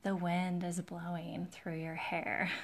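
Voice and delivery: slow, relaxing guided-meditation voice, playfully put on; mindfulness video voice. Nail streamer playfully demonstrating a beach mindfulness video, slow and soothing. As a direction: pretend to lead a mindfulness video, very slowly. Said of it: "mindfulness videos where".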